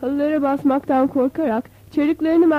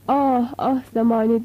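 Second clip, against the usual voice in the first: moaning; 2 semitones lower, slower than usual. Acted. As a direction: sigh it out, worn down. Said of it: "Durup durup inliyordu".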